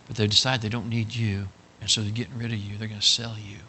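low, soft, grave delivery; mock solemn. Big brother telling Bubba he will be sold, mock-solemn. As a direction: break the cruel news with false regret. Brother breaks false bad news.

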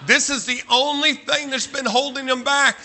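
high, loud hammed-up fan prophecy; mock rallying cry. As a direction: proclaim it like a mock rally, stretched and building to a shout. Mock rally for his football team.

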